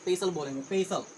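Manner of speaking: पेसल said pe-sal with no t; पेसल, clean two syllables; silent t. Shown as a demonstration. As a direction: drop the t in पेसल. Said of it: "पेस्टल नहीं बोलेंगे".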